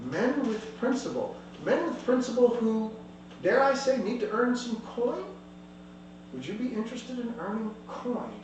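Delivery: lightly voiced scheming captain; questioning captain. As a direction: sound them out with an offer. GM voices captain sounding out party.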